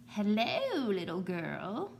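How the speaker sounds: a hint of a slow wolf growl; lightly voiced sly wolf greeting; deep growly wolf. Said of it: "said a deep, growly voice".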